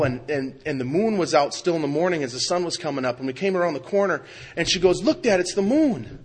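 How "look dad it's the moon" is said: higher, louder, slow delighted call; excited little girl. Retold or imitated. Little girl calling to Dad in the car, excited. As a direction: imitate a child pointing out a wonder.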